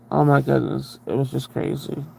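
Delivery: normal talking voice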